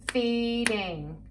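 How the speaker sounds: "Feeding" split into fee, ding; syllable by syllable. Shown as a demonstration. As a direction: say "Feeding" as two measured beats. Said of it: "Do it with me".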